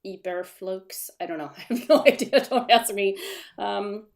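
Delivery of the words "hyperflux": slow, tentative German-accented attempt; mock German pronunciation. Shown as a demonstration. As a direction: try it slowly with a German accent. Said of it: "with the German accent".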